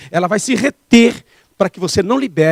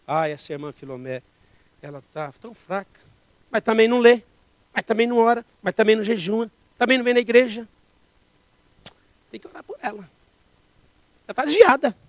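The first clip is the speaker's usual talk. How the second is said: gossiping tone; 3 semitones higher than usual. Retold or imitated. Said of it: "Eu vou falar que é pra gente orar".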